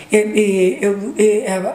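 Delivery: halting, repeated false starts; imitating tongue-tied stammer. Caller struggling to tell a mother bad news, stammering. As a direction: stumble on the first word, unable to get going. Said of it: "falando, não conseguia falar".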